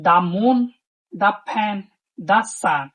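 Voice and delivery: "the" said "thuh" before each consonant noun; short "thuh" before moon, fan, sun. Shown as a demonstration. Teacher showing "the" before consonant sounds. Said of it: "দা বসাইছি".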